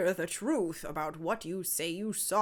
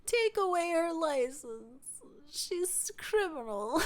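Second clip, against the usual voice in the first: mock pleading; 7 semitones higher, slower than usual. Real, not acted. Mock pleading, slow and high.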